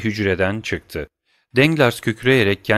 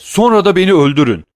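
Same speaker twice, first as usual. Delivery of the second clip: much higher, louder and fast; despairing outburst; 10 semitones higher, 9 dB louder, faster than usual. A narrator's reading. Danglars begging Vampa to kill him, desperate. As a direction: throw it out in utter despair.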